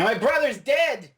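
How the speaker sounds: high, loud, drawn-out mock scream; retold scream. Fan retelling a woman holding a gun on the Doctor, mock scream. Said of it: "She's screaming".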